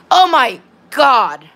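slow, drawn-out exasperation; real, slow-burning frustration; exasperated. Real, not acted. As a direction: stretch each word out in exasperation. Exasperated at hateful chat and game.

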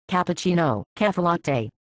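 Cappuccino, cafe latte with Italian vowels; Italian accent. Shown as a demonstration. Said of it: "You are not an expert in Italian accent".

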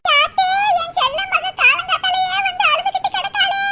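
worried mother's cry of dismay; alarmed. Acted. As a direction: fuss anxiously over a crying child. Mother alarmed at crying daughter.

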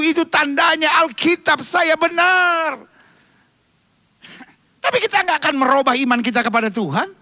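a touch of revival preaching; mock charismatic preaching. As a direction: play a charismatic pastor, half in jest.

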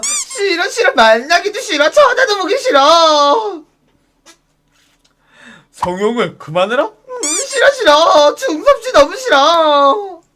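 half-laughing, half-sobbing mock whine; whiny disgust. Wailing no at the pushy club guy. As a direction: whimper no over and over like a spoilt child.

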